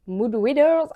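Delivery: hammed-up attempt at an English accent; bad English accent. Shown as a demonstration. Book vlogger retrying an English term, in a catastrophic English accent. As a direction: overdo the English accent on "Mood readers". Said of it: "mon accent anglais est catastrophique".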